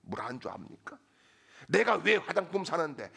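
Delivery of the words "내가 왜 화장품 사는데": acted wife starting to flare up, louder; mock indignation, firm and raised in level; imitated rising anger. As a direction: begin an indignant challenge, temper still building. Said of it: "아내가 화가 막 치밀어 올라가지고".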